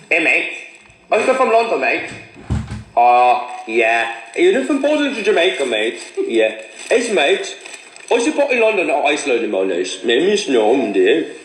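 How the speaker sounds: hammed-up British "mate" banter; mock London accent. Visitor acting a chat between London mates, mock British accent. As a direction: play both sides in a put-on London accent. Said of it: "you want me to say".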